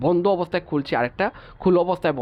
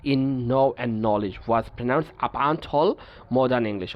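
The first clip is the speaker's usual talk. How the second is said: each English word read out slowly and evenly; measured, deliberate reading of a textbook rule; much slower than usual. Acted. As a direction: dictate the rule slowly to the class.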